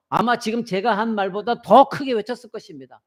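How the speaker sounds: usual speaking voice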